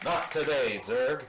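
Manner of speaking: firm heroic cartoon line; Buzz Lightyear. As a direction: deliver it like a square-jawed hero. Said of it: "is Buzz Lightyear".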